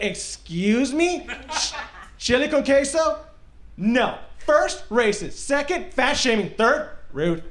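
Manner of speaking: put-on very slow, sassy valley girl lecture. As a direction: put him in his place like a valley girl. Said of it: "I start talking like a valley girl".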